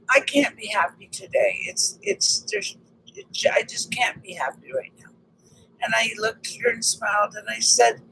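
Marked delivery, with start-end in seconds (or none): 0.1-5.1 soft, trailing off to near-whisper; retold downcast voice. Stranger confides to the passer-by, mock downcast and soft. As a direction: let the words sink away, mildly downcast.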